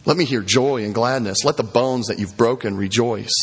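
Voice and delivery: measured psalm reading with falling phrase ends; scripture reading. Acted. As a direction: read the penitent's prayer aloud to a congregation. Reads Psalm 51 aloud.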